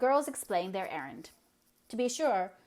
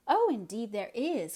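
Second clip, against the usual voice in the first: slow, eager, a bit louder; eager cry; 3 semitones higher, 4 dB louder than usual. Acted. Anne eagerly defending the bright side to Eliza. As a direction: insist brightly. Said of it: "cried Anne".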